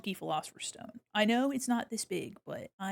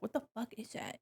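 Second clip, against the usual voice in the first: whispered confusion; 10 dB quieter than usual. Retold or imitated. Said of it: "People are just like".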